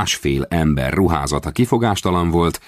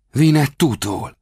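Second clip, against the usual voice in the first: Vinettútól? asked high and slow in amazement; boy stunned by the name Vinettútól; astonished; 9 semitones higher, slower than usual. A narrator's reading. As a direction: gasp out Vinettútól? in disbelief. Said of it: "kérdezte álmélkodva".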